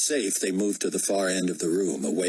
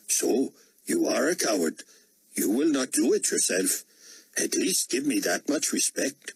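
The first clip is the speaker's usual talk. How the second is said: put-on higher-pitched, Indian-accented challenge; defiant Indian dissident; 5 semitones higher than usual. Dissident daring the potentate within arm's length, defiant. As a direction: dare the ruler to act.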